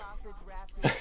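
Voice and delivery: quiet breathy laugh; short laugh. Real, not acted. Streamer amused by chat, short quiet laugh. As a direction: let a short laugh slip out.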